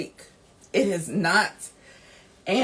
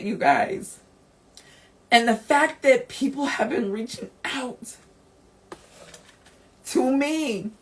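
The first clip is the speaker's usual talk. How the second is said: holding back tears; 4 semitones higher than usual. Real, not acted. Host thanking listeners who reached out, close to tears. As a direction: speak through real tears, fighting to stay steady. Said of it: "I did not know I was gonna be crying today".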